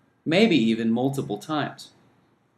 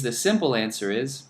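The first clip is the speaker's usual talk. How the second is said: normal talking voice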